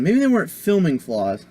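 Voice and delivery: talking with food in mouth; words round a mouthful; mouth full. Real, not acted. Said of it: "Sorry, I had something in my mouth".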